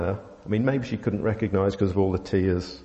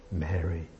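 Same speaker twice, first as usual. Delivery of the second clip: softer and lower, held tenderly; tender whisper of name; 5 semitones lower, 5 dB quieter than usual. Shown as a demonstration. Preacher savours the tender word to the congregation, softly and low. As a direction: say the name gently, almost breathed. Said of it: "most tender moment".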